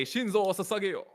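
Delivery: "Shinzo Sasageyo" pitched high with gusto; heavy emphasis. Real, not acted. Player showing how game skins say the quote, emphatic and high. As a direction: punch out "Shinzo Sasageyo" with a Japanese-style twang. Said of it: "You say it with so much".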